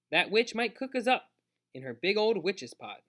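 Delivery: put-on high, loud kid's warning; alarmed protest. A narrator's reading. Boy warns his brother about the witch, alarmed protest.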